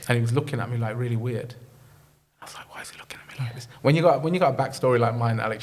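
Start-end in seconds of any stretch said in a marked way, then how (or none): 2.4-3.7 near-whispered inner thought; retold suspicion, very soft; hushed aside. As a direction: murmur a wary private question under your breath. Retelling his wary private thought.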